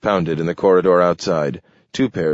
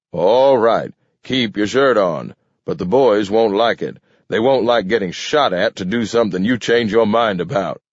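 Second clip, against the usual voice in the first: slightly higher, irritated underling; lightly voiced grumbling Maxwell; 3 semitones higher, 3 dB louder than usual. Maxwell grudgingly obeys the mayor, lightly grumbling. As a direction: give in with a touch of grumbling.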